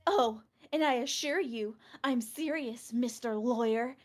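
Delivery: bold declaration. Acted. Witness boldly insists.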